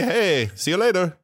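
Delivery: slow casual send-off; casual farewell. Acted. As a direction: toss off a slow, casual see-you-later. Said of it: "We just say".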